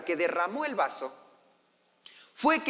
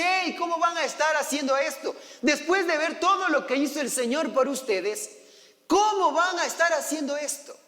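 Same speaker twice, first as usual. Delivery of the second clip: raised, higher rebuke at the people; angry Moisés; 5 semitones higher than usual. Acted. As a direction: scold them from the mountain. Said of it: "Moisés se enojó". (Moisés enojado regaña al pueblo)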